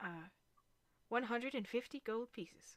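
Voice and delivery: bird-like person character voice. Voicing a bird person greeting arriving players: voicing a bird person. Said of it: "an Aarakocra, which is a bird person".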